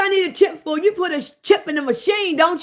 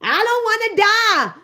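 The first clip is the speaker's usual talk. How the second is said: mock whine; 5 semitones higher than usual. Mocking frightened vaccine-goer.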